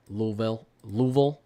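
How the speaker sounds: Louisville run together as "Loo-vul"; Kentucky pronunciation. Shown as a demonstration. Streamer trying out the local name on chat, Kentucky pronunciation. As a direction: say Louisville as two squashed syllables, LOO-vul. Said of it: "everyone from Kentucky calls it Louisville".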